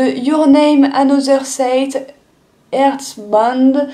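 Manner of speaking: English title "Your Name Another State, Earthbound" read slowly with a strong French accent. Real, not acted. Vlogger reading an English manga title aloud, French-accented English. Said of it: "Excusez mon accent pourri anglais".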